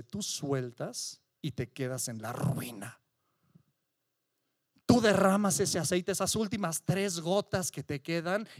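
a lightly voiced giant, low and taunting; menacing giant. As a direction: taunt them, the giant of fear. Giant named control threatens listener. (gigante burlón y amenazante)

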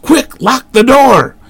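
high slow desperate yell; frantic shout. A narrator's reading. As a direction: scream for the lock. Panic at door.

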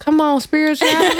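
playful whispered cheer. Real, not acted. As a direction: breathe it out teasingly as a joke. Teasing cheer at friend's line.

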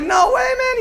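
high, loud scoffing shout; mock shout. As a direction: jeer at the coach. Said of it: "they're like".

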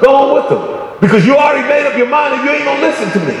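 mildly exasperated, dismissive go-ahead; dismissive permission. Retold or imitated. God giving up on a stubborn listener, mildly dismissive. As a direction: wave them off, knowing they won't listen. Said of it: "he's saying it in a way".

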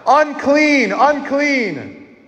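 high shouted demo of unclean; leader's call to repeat; called out for the kids. Shown as a demonstration. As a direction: show the kids how to cry it out. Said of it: "Scream out right now".

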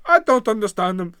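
badly faked Welsh accent; a loose attempt at a Welsh accent; botched Welsh accent. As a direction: imitate a Welsh roommate with an unconvincing accent. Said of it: "that was gonna be your Wales accent?".

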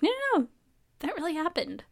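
high, quick no no no; husband insisting it really happened. Retold or imitated.

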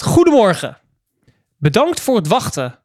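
overdreven vriendelijke, gemaakte klantenservicestem. Retold or imitated. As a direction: speel het na als een zoetsappige medewerker. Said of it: "gemaakte, infantiele manier van reageren". (geïmiteerde klantenservicetoon)

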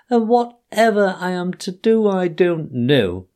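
high, loud tearful wail of a fake washerwoman; crying afresh. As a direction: wail it out, pitying yourself. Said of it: "crying afresh".

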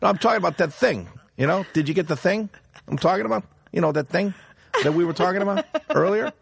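high, laughing mock Italian-American insistence; Goodfellas voice. Friend retelling Pat pressing Sonny in mob voice. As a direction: push the vague thing line like a wiseguy. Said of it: "he even talks like this".

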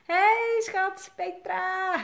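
high, bright-eyed hello to a friend; greeting Petra as she joins the live stream, high and excited. Real, not acted. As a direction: call out the name with delight. Greets viewers arriving in stream.

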